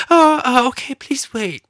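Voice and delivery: high, fluttery mock agent voice; flustered agent. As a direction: squeak it out like a startled clerk. Agent caving, imitated.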